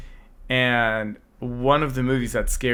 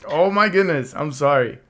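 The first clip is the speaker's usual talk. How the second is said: hoarse, voice giving out; raspy, losing voice; 3 semitones higher, 4 dB louder than usual. Real, not acted. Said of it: "you're gonna get a raspy voice".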